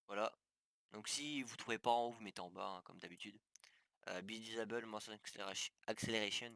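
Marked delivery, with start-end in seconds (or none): 4.2-6.5 English terms with a French accent; stumbling French-accented English, retrying the last word. Real, not acted. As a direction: read the English setting name in a French accent. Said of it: "désolé pour mon accent anglais".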